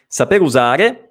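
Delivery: "saper usare" ending on a clear E, lifted; clearly finished "saper usare", rising on the final E. Shown as a demonstration. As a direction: model "usare" with its last vowel an E, not I. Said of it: "E finale, non usari".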